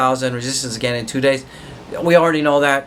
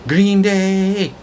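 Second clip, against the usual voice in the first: excited shout; 5 semitones higher than usual. Real, not acted. Market up, celebrating.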